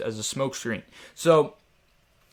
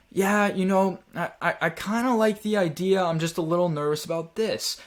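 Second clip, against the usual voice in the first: higher, hesitant prospect sounding unsure; uncertain tone; 4 semitones higher than usual. Shown as a demonstration. Unsure prospect to salesman about the price, hesitant and higher. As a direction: let doubt creep in, a little higher. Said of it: "my tonality sounded like I wasn't very certain".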